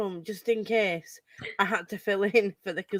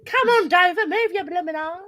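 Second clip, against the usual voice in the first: put-on Cockney accent; 7 semitones higher than usual. Quoting Eliza at the races in a Cockney accent. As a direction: belt it out in Cockney, Eliza style. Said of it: "slips back into her accent".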